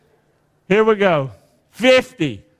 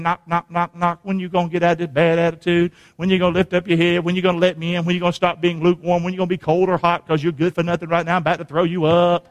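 relentless run of questions on one level pitch; insistent knocking caller. Acted. Jesus pleading with the lukewarm believer at the door, persistent. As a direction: keep at them without letting up, like steady knocking. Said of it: "He just keeps on hanging in".

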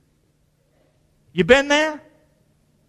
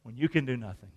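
hushed; 9 semitones lower, 15 dB quieter than usual. Real, not acted. Preacher hushing the congregation on a hard question. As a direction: drop to a near hush. Preacher drops to near silence.

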